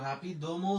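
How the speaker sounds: হাপি দ ম with a full vowel after দ; separated syllables. Shown as a demonstration. Teacher allows the learner's form, syllables kept apart. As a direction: keep দ its own syllable in হাপি দ ম. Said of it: "যদি বলেন সেটাও কিন্তু সঠিক".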